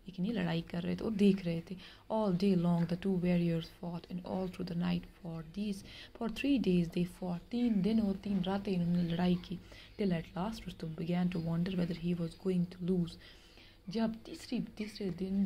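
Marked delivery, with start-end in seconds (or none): 2.1-7.4 slow, measured reading of a tale; story reading. Acted. Teacher reads story aloud. 10.0-13.1 slow, measured reading of a tale; story reading. Acted. Teacher reads story aloud.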